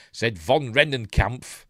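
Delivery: von Rennenkampf slow, loud and savoured; relished name. Shown as a demonstration. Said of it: "I love saying that".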